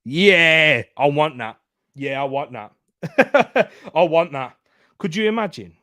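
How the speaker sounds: terrible impression, loud and drawn-out; old T. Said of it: "that was a terrible t-, old T".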